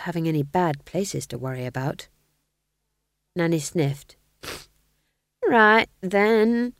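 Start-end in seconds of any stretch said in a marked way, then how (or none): 5.4-6.7 slightly mollified. A narrator's reading. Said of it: "she said, slightly mollified".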